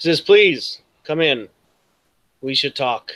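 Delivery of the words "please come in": empty, hollow-sounding lich-like voice. A game master voices a lich speaking to the players, loud hollow voice. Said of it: "in a loud, kind of hollow voice".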